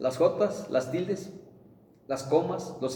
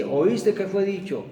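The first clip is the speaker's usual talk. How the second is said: slow, raised, weighty reading of the verse; emphatic scripture quote; 5 semitones higher, 3 dB louder, slower than usual. Acted. Preacher to congregation, quoting Jesus, slow and emphatic. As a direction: proclaim each word like scripture.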